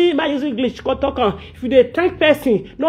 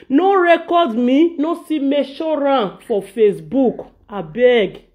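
pleading. Retold or imitated. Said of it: "The first thing we come out from Mama Ijore mouth was".

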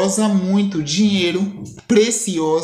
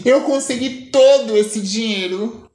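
amused. Acted.

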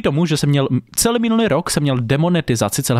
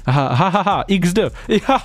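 reading laughs; 5 semitones higher than usual. Pretend. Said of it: "Twitter, chat".

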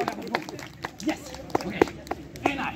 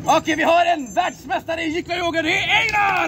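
winner announcement; 3 semitones higher, 3 dB louder than usual. Acted.

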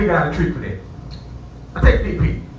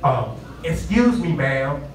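"Um, excuse me, ma'am" said slower and carefully polite; slow proper request; 3 semitones lower, much slower than usual. Retold or imitated. Hotel guest retrying his request to the clerk, slow and overly polite. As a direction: spell out "excuse me, ma'am" slowly, like a proper gentleman. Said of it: "I'm saying it improperly".

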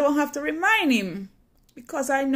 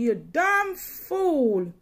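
slow, barely raised mock curse; mild curse; 4 semitones higher, much slower than usual. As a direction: drag the insult out, held back. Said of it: "cursing me".

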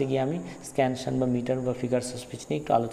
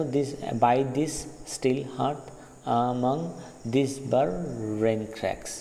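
slow and broken into feet with pauses; measured scansion reading; scanning iambic feet; much slower than usual. Shown as a demonstration. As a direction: beat out each iamb. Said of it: "আর second লাইনটা দেখো".

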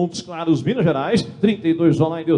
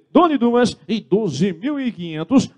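auctioneer call; 5 semitones higher, slower than usual. Real, not acted. Auctioneer calling going twice.

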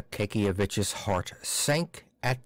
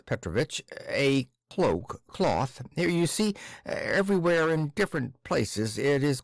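timid stammering clerk. Acted. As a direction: fumble every phrase, apologetic. Akaky stammers his request.

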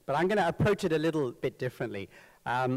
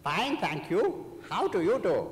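put-on Sri Lankan accent; 4 semitones higher than usual. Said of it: "the correct reply is".

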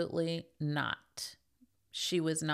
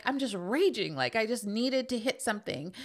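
put-on toddler voice; 4 semitones higher than usual. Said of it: "she was like".

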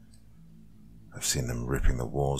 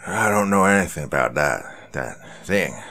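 scared stutter; 4 dB louder than usual. A narrator's reading. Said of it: "the poor man quietly stutters out".

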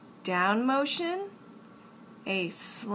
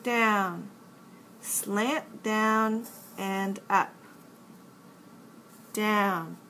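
slow exaggerated speech modeling; slower than usual. Shown as a demonstration. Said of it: "Let's learn how to make the uppercase N".

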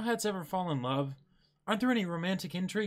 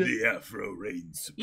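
declaration; 8 semitones lower than usual. Acted. Character declares triumph.

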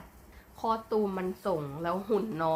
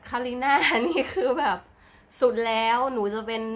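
higher and louder, gushing over her idol; gushing fangirl; 3 semitones higher, 6 dB louder than usual. Real, not acted. Fan raving to her viewers about her idol, loud and excited. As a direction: let the praise burst out loud and high.

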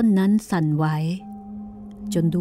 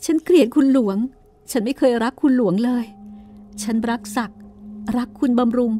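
put-on higher, desperate young wife lashing out at her husband; Rampai's outburst; 5 semitones higher than usual. Wife confronting her husband about being trapped, higher and desperate. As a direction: cry out your loathing, voice climbing.

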